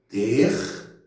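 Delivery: TER, MI, NOU with clear pauses; syllable by syllable. Shown as a demonstration. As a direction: break terminou into three separate syllables. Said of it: "dividindo as sílabas". (terminou sílaba por sílaba, com pausas)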